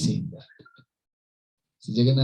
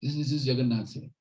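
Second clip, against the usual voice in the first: higher, exasperated royal scolding; indignant mock rebuke, pitch climbing; retold angry king; 6 semitones higher, 4 dB louder than usual. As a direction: act out a king berating his servant. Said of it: "Now king was again angry".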